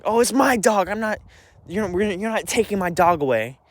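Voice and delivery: a whiny high Mom clinging to her dog; mocking Mom. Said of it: "Mom's saying".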